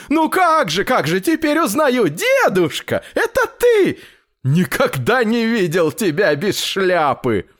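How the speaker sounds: high, gushing tailor's voice; effusive tailor. A narrator's reading. Tailor recognises grandfather and offers him a bargain, effusive. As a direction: greet an old friend in an excited high pitch.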